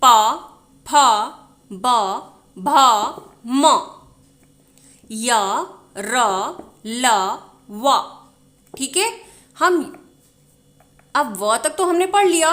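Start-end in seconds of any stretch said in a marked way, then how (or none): 0.0-8.0 each letter said alone with a pause; reciting consonants. Shown as a demonstration. Teacher recites the प row to students. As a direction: list the letters clearly for learners. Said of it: "sound सुन लीजिए".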